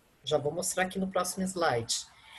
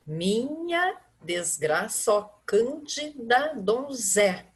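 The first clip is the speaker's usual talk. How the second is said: slow reading cut off at "donzé"; counting up to the tonic; 3 semitones higher, much slower than usual. Shown as a demonstration. Teacher counting syllables for the class, slow. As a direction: read slowly and stop on "donzé". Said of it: "A minha contagem, ela vai ser até aí só".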